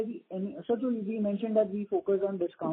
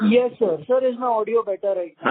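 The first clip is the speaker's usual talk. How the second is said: much louder, projected into the phone; speaking up; 9 dB louder than usual. Real, not acted. Caller asked to speak louder checks his audio, speaking up. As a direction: raise your voice so the line carries. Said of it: "can you speak slightly louder".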